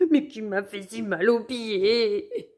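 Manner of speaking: slow whimpering lament; crying wolf. Acted. Wolf cries about his sore feet, slow whimper. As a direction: wail it like a hurt child. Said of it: "pleure-t-il".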